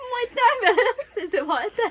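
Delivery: slow, laughing through tears; half laughing, half crying from spice. Real, not acted. Spicy food, laughing and crying.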